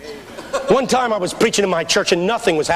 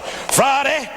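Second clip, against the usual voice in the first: imitated pastor preaching; 5 semitones higher than usual. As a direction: start building like an old black-church preacher. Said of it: "And he started".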